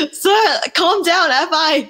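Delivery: slow, high, half-laughing "calm down"; mock calming. Daughter teasing her dad to calm down, slow and high. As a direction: talk him down slowly, amused. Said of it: "I'm just like".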